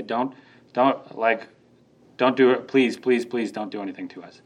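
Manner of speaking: a meek little plea for mercy; pleading demons. Retold or imitated. Tormentors begging Jesus for mercy, low timid pleading. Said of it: "his tormentors come to him and say".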